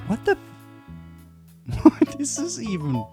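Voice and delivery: reading in disbelief. Real, not acted. Baffled by a meme review.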